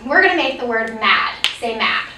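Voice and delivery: clear, measured teacher prompting; modeling teacher voice. Shown as a demonstration. Teacher models for a kindergartner, clearly. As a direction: model the routine for a young student. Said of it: "So I'll say".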